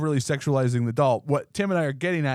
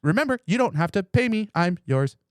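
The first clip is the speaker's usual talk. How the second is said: higher-pitched, lightly acted doll voice; devoted sex doll; 6 semitones higher than usual. Sex doll reassuring its owner, devoted. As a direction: offer yourself as a pretend devoted doll. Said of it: "mine would just be throwing out compliments".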